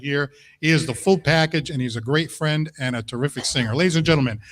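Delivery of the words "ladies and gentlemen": building to a loud, high, drawn-out announcer yell; announcer shout. Real, not acted. Host brings on the singer, rising to a booming shout. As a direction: hype the singer's entrance.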